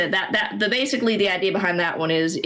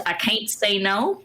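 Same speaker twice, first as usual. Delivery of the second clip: Oklahoma accent; slower than usual. Shown as a demonstration. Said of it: "the Texas accent one".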